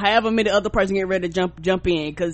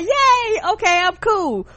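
much higher chirpy voice; mock online fans; 11 semitones higher, 3 dB louder, slower than usual. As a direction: cheer lightly like a fan. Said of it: "y'all be like".

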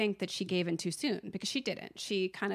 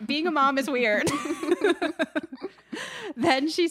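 high, loud amused exclamation breaking into laughter; laughing; 8 semitones higher, 5 dB louder than usual. Real, not acted. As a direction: say it loud and high, then crack up. Amused at retold odd moment.

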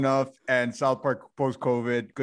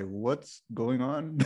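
softer; 7 dB quieter, much slower than usual. Retold or imitated. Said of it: "Paul is there like".

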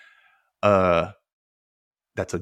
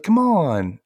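raised, protesting plea; mock pleading; 7 semitones higher, 3 dB louder than usual. Buzz pushes back at Vink's refusal, pleading. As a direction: beg in a higher voice.

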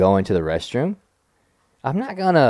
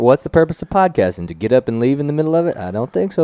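playfully strict refusal, a bit higher; mock stern teacher; 4 semitones higher than usual.

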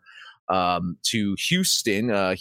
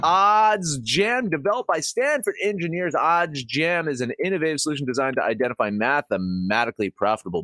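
upbeat sponsor ad read; 3 semitones higher than usual. Acted. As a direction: sell it like a podcast ad.

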